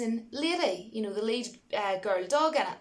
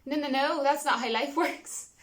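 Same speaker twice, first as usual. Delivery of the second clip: mock protest; 3 semitones higher than usual. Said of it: "I'm just kidding".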